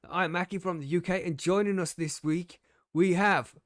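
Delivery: bright mock announcer opening; host intro. Host opening his stream, mock announcer welcome. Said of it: "But I was gonna go".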